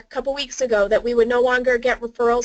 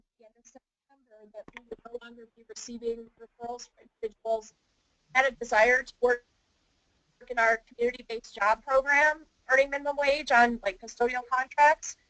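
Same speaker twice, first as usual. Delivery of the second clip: fading in and out; 5 dB quieter than usual. Real, not acted. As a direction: voice fading in and out, far from the mic. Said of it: "You're, you're fading in and out".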